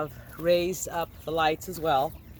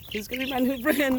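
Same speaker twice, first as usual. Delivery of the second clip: laughing; 6 semitones higher, faster than usual. Real, not acted. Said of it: "repeats the line".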